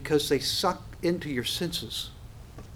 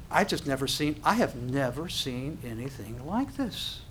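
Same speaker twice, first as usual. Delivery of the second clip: awed hush; 6 dB quieter than usual. Acted. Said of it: "you're gonna go".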